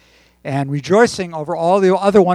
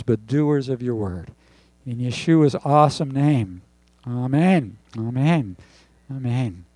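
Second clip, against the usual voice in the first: prayer. Real, not acted. Pastor praying aloud over the congregation, earnest prayer. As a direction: pray it sincerely, unhurried.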